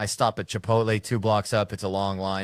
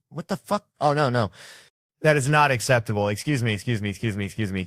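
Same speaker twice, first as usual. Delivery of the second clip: much higher, louder indignant burst; snubbed in line, loud mock outrage; outraged; 3 semitones higher, 4 dB louder than usual. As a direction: erupt in disbelief.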